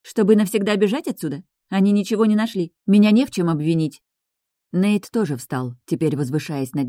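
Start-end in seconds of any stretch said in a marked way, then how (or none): 0.0-4.0 indignant. Acted. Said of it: "возмущённо уставилась".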